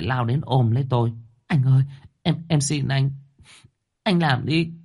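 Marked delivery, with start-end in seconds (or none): 1.5-4.7 higher and higher, desperate tearful begging; a young girl's sobbing plea, climbing higher; crying, pleading girl. A narrator's reading. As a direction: beg him through tears, rising in pitch. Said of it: "em nó lại càng khóc to hơn".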